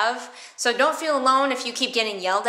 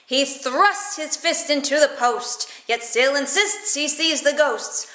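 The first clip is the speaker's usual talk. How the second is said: slow tongue twister; 3 semitones higher, slower than usual. Shown as a demonstration. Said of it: "One of our all-time favorites".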